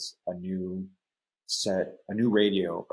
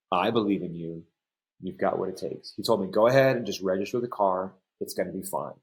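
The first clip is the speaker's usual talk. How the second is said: choked up, holding back tears; lump in throat. Real, not acted. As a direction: voice tight with held-back tears. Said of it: "I got a lump in my throat here".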